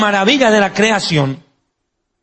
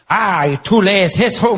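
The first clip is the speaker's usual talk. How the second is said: slow, mocking question in a German accent; German scientist mocking the Bible reader; slower than usual. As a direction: play the sarcastic German. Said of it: "en un tono medio sarcástico".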